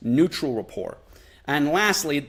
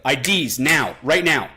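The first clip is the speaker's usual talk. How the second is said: firm, louder commanding order; breaking rapport; 5 dB louder, slower than usual. Shown as a demonstration. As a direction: speak down like a cop. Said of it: "breaking rapport".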